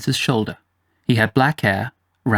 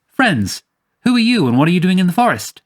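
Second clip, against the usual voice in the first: higher, quick call to strangers; 7 semitones higher, 3 dB louder than usual. A narrator's reading. Hanno hailing two boys in the forest, calling out. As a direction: call out a brisk challenge. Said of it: "Hanno called out".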